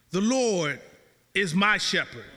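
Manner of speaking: low, slow reading with deliberate pauses; slow, meditative reading. Shown as a demonstration. Preacher reads the psalm to the congregation, slow and meditative. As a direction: read the verse slowly, savoring each phrase. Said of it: "you ought to read it slowly".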